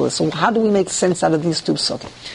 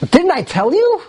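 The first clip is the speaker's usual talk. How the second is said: scolding Ruvain; 10 semitones higher than usual. Acted. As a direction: rub it in from above. Ruvain rebukes his brothers.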